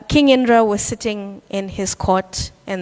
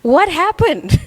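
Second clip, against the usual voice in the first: higher, faster mock indignation, climbing to a pitched-up cry; worked up; 4 semitones higher than usual. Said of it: "he starts getting worked up again".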